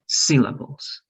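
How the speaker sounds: syllables said slowly with a short i; teacher's model word. Shown as a demonstration. Teacher models the word for Betsy, clear short i. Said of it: "en lugar de I, va a ser la I".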